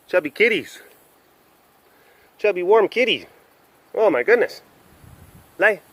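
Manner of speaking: high cooing pet talk. Real, not acted. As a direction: gush over a chubby kitty. Cooing at the cats.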